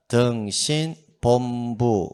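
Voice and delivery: very slow, spaced-out mnemonic; read-aloud drill. Shown as a demonstration. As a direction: draw out each syllable for students to repeat. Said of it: "소리 내서 읽는 게 좋다".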